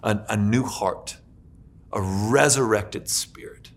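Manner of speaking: slow breathy whisper; hushed whisper to the congregation. Real, not acted. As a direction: breathe it out in awe. Hushed climax of sermon.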